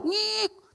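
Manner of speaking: very high, soft mic feedback squeal; imitated feedback squeal. Old tape deck fights back when tested, imitated squeal. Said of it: "Tip deck itu suka ngelawan".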